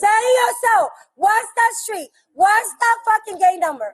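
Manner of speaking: angry demand. Real, not acted. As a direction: shout it at them as a demand. Confronting officers at the gate.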